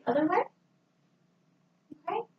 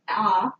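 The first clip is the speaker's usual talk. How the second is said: imitating patient's aah; 4 semitones lower, 5 dB louder than usual. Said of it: "as the patient phonates".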